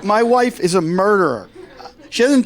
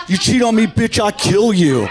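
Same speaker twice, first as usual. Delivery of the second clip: threatening man; 3 semitones higher than usual. Retold or imitated. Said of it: "If men were like".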